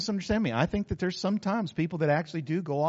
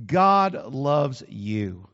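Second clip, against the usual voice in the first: slow, lowered, weighty delivery; earnest declaration; 6 semitones lower, much slower than usual. Shown as a demonstration. Preacher assuring the congregation, slow earnest declaration. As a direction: look them in the eye and say it slowly. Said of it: "look you right in the eye and tell you this".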